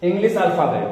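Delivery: very slow, with long pauses between phrases; slow dictation. Real, not acted. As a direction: dictate it piece by piece for note-takers. Dictating notes for students to write.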